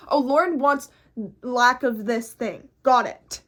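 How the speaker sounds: voicing the subconscious. Subconscious voiced as a character.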